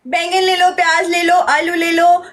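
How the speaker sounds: sing-song street seller calling; vegetable vendor call. Pretend. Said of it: "okay, सब्जी भेजो".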